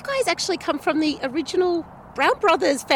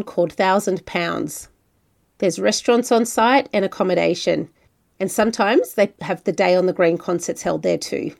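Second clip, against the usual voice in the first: measured, scripted travel-show read; podcast narration; 9 semitones lower than usual. A narrator's reading. Host introducing a wine region to listeners, scripted narration.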